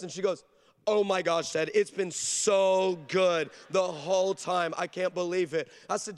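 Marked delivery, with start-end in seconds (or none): 0.9-5.7 slow, drawn-out mock gushing; on-air gushing. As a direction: stretch out the praise for the audience. Daughter's put-on on-air answer.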